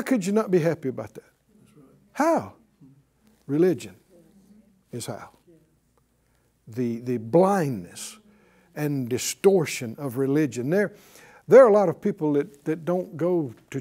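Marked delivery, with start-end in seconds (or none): 3.5-10.7 low grave verdict. Real, not acted. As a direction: drop the voice to pronounce judgment.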